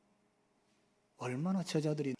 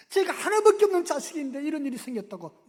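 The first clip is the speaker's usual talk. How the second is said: 하나밖에 stressed and cried out higher and louder; father's desperate cry; 10 semitones higher, 9 dB louder than usual. Retold or imitated. Father begging Jesus to save his only son, loudly. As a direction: plead loudly, leaning on 하나밖에. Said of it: "소리를 지르는 거예요".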